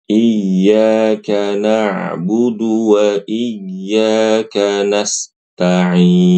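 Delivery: slow drawn-out recitation of "iyyaka na'budu wa iyyaka nasta'in"; Quranic recitation demo. Shown as a demonstration. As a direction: recite "nasta'in" with the sin flowing, unbroken.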